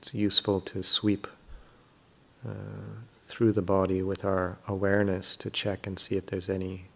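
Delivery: calm, unhurried meditation guidance with long pauses; guided meditation. Real, not acted. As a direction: gently guide listeners through settling the body.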